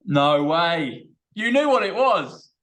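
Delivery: loud, high-pitched astonishment; amazed disbelief. Real, not acted. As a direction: exclaim in excited disbelief. Amazed at a number match.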